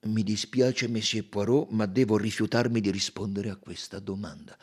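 lightly voiced colonel, firm refusal; colonnello riservato. (colonnello fermo, appena accennato)

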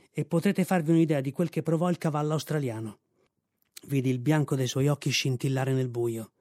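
ordinary delivery, nothing marked

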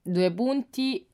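slowly dictating each word; slow dictation. Shown as a demonstration. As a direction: spell it out slowly for the child. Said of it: "Tema, punto".

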